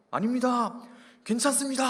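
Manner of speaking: loud, high barked reply like a new soldier; eager recruit shout. Acted. Recruit loudly assures senior he is fine, shouting. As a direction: snap back loudly to the senior.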